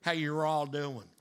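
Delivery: slow, easy Southern accent; a friendly Southern drawl on a greeting. Shown as a demonstration. Pastor joking the Hebrew sounds Southern, light Southern accent. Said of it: "It almost sounds a little Southern".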